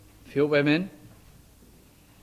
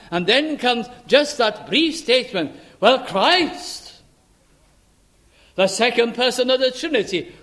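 insistent pulpit delivery, pitched up; emphatic preaching; 3 semitones higher than usual. Acted. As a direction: drive the point home to a congregation. Preacher builds to his central point.

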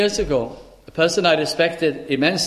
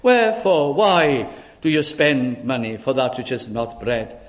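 scripture reading; 3 semitones lower than usual. Acted. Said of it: "Listen to the verse again".

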